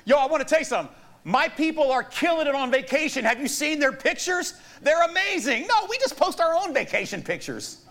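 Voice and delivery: high, loud, excited pretend post; hyped-up bragging. Preacher pretends to post about friends' vacation pictures, hyped. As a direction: gush to everyone, hammed up.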